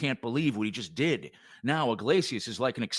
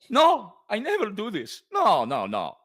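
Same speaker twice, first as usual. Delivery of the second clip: high gasp then a louder, higher denial; gasp, then protest in mock panic; shocked gasp and protest; 6 semitones higher, 5 dB louder than usual. Short actor gasps at his new stage name, mock panic.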